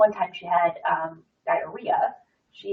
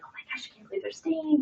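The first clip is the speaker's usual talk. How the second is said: mock-indignant, pitched high; unloving complaint; 9 semitones higher, 7 dB quieter than usual. Griping to her daughter about the sick boy, high exasperated scoff. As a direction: scoff like a judgy mom at the pool. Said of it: "not being very loving".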